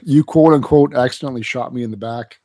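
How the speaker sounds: talking through a mouthful; words around a bite of food; chewing while talking. Real, not acted. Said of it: "Please stop eating into the mic".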